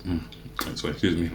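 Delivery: talking with a mouthful; words round a bite of food; mouth full. Real, not acted. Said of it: "Shouldn't be talking with my mouth full".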